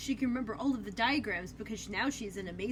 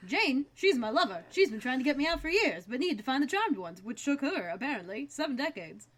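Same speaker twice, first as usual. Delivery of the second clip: villain voice. Retold or imitated. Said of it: "Yes, seriously".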